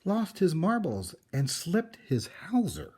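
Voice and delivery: shocked neighbours cluck about the crazy man; scandalised neighbours. Acted. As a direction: neighbours scandalised by the painted house, high and loud. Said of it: "the people said".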